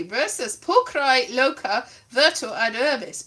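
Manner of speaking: Latin read aloud in a bad accent. Reading Ovid to the audience, bad Latin accent. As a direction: declaim Latin with a dodgy accent. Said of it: "bad, bad Latin accent".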